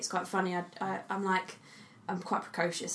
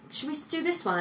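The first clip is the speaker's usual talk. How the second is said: mum's gentle question, pitched much higher; mum asking; 9 semitones higher than usual. Retold or imitated. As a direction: imitate a mother coaxing her little girl. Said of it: "She's like".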